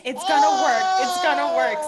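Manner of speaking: high, loud, insistent repetition. Retold or imitated. Mom insists to her partner that it will work, loud and high. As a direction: convince yourself it will work. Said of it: "and I'm like".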